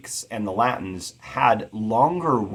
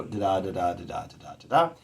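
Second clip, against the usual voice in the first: da-DA beats, weak then strong; iambic rhythm; 2 semitones lower, faster than usual. Shown as a demonstration. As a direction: tap out five iambs. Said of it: "five iambic structures in a row".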